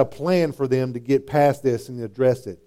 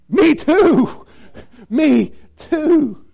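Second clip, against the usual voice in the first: higher and louder each time; emphatic repeats; 12 semitones higher, 7 dB louder, much slower than usual. Acted. Preacher repeating the powerful words to his congregation, emphatic. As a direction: build the me too. Climactic agreement.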